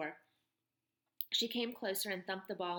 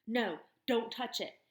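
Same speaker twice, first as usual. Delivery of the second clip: put-on pained frightened boy; 3 semitones higher, 4 dB louder than usual. Peter in pain.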